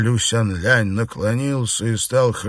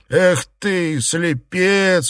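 cried out; 6 semitones higher, much slower than usual. Acted. Liu Xianglian cries out at the drunk Xuepan, scornful. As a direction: shout down the fool. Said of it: "вскричал Лю Сянлянь".

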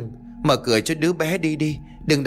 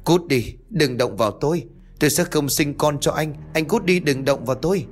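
high, fierce get-away-from-me; frantic rejection; 6 semitones higher than usual. Acted. Ngọc pushing her husband away, fierce and frantic. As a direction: shove him off with your voice. Nhanh chóng đẩy anh ra.

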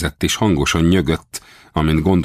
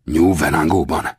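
mildly excited, startled question; understated burst of excitement. A narrator's reading. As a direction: ask with a touch of eager disbelief. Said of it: "kérdezte leírhatatlan izgalommal".

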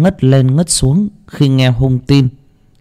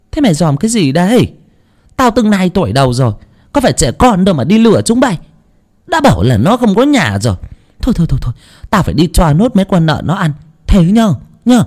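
put-on quick, higher, pushy old woman's voice; old neighbour brushing off the boy, higher and rushed; insistent old woman; 8 semitones higher, faster than usual. A narrator's reading. Insistent old aunt fobbing him off, higher and quick. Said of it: "bà vội quả quyết".

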